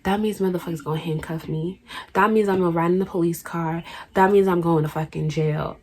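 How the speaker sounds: soft, hushed inner monologue; dawning dread. Retold or imitated. Teen realizing arrest is coming, hushed dread. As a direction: quietly count off each grim consequence.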